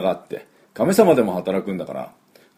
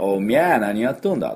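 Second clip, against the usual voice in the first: lightly imitated Nagoya dialect; a quick mock Nagoya local with an open "mya". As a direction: say it like someone from Nagoya. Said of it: "という名古屋の人のね".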